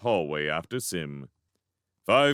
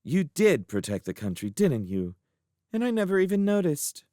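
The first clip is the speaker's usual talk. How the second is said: tender murmur; 8 semitones higher than usual. A narrator's reading. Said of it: "murmured to waif".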